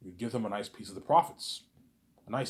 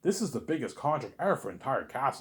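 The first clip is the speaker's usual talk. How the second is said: mock shocked Peter; 3 semitones higher than usual. Peter stunned by the huge contract, hammed-up amazement. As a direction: play Peter stunned by the offer. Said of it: "And Peter's all shocked. He's like".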